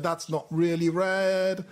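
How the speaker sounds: lightly put-on impression, drawn-out words; Dave impression. Host casting absent co-judge's vote, lightly imitated voice. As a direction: slowly mimic a friend's way of talking, lightly. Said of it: "That's a really good Dave impression".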